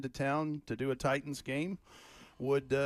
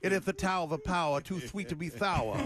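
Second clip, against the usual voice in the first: wrestling promo; 2 semitones higher than usual. Retold or imitated. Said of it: "let it roll off the tongue like this".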